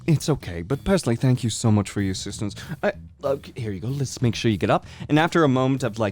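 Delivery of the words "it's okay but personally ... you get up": fussy host father. Acted. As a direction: play the flustered, doting host dad.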